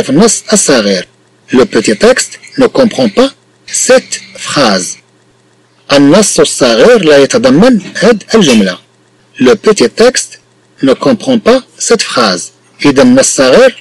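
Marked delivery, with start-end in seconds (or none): 1.5-5.0 slow dictation. Shown as a demonstration. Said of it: "teacher reads sentence slowly". 9.4-12.5 slow dictation. Shown as a demonstration. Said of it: "teacher reads sentence slowly".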